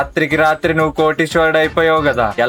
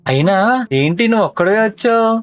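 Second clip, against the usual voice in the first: sarcastic; 5 semitones higher than usual. Acted. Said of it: "ఎటకారంగా మాట్లాడుతున్నట్టున్నాడు".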